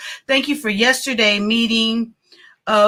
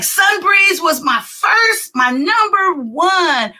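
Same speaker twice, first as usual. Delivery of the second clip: mock proud announcement; 6 semitones higher than usual. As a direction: proclaim it like a dedication. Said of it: "I'm gonna be like".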